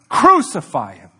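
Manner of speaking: a sudden loud crowd shout; loud mock mob cry. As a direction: call it out like the mob demanding death. Crowd cry quoted in sermon.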